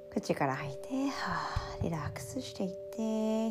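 breathy whispered exhale cue; soft spa whisper. Shown as a demonstration.

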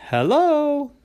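high, loud squeaky fish; trickster tale voices. Acted. Fish greets.

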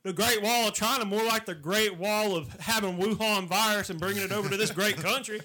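indignant Southern redneck ranting. Acted. Riffing as a redneck.

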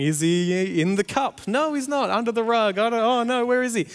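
hammed-up searching dad; mock puzzled seeking, rising high; playing it up. Dad pretending to search for hidden son, playing it up. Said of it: "just played it up a little bit".

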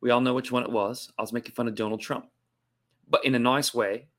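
sustained put-on Australian accent; host the show as a mock Aussie, in accent. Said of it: "did the whole show tonight in Australian accent".

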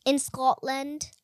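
slow put-on Scottish accent. Kid showing off a Scottish accent, slow put-on Scottish. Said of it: "I can do a Scottish".

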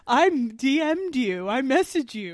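mock the singer's halting DM complaint; imitating Swedish guy. Friend imitating a Swedish guest's broken-English complaint. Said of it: "like, goes".

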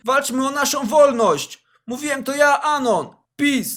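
rally the class to strike, swelling to a shout; mock revolutionary speech, ending in a shout; rousing speech. Pupil's rebel speech to class.

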